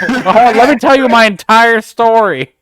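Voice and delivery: put-on high, loud old man ramble; rambling old geezer, loud and high.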